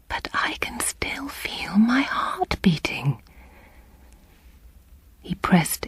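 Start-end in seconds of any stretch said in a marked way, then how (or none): 0.1-3.2 slow tearful whisper. A narrator's reading. Patient pleads tearfully.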